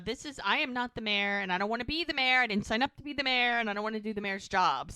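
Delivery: fast, insistent retold complaint; retold protest. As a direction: imitate him refusing the job in a rush. Doc's retold protest at the task.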